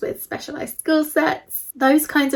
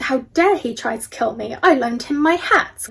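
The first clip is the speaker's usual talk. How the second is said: imitating an indignant man, building to a louder finish; mock indignation; 4 dB louder than usual. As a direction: act out affronted disbelief, lightly hammed-up. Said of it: "was so indignant".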